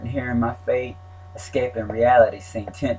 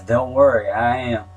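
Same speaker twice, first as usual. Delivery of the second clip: raised voice; 4 dB louder than usual. Retold or imitated. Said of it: "Raising his smoky voice".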